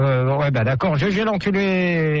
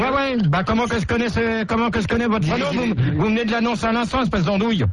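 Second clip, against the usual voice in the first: raised, fast telling-off; angry. Acted. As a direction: snap at him down the phone. Canular, il insulte l'employé. (engueulade au téléphone)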